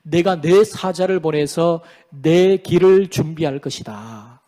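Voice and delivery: slow proclamation, falling away at the end; God's solemn pronouncement. Acted. Preacher quotes God promising a messenger, solemn and slow. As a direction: declare it slowly, then let it sink. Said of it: "하나님이 말씀하십니다".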